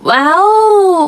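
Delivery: awed whisper. Acted. Unboxing the new stationery.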